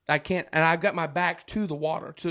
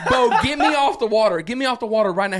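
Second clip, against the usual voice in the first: panicked demand; 3 semitones higher, 5 dB louder, faster than usual. Retold or imitated. Retold panicked demand to friend.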